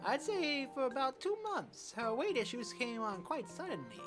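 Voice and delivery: put-on old man East Asian accent. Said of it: "I'm giving him this accent, this voice".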